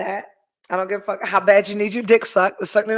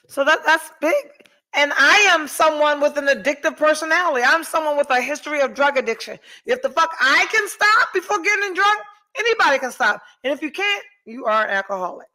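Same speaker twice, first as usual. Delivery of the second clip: raised pitch, impassioned argument; emphatic insistence; 5 semitones higher than usual. Real, not acted. Woman with addiction history arguing anyone can stop, emphatic insistence. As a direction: press the point home, pitch climbing.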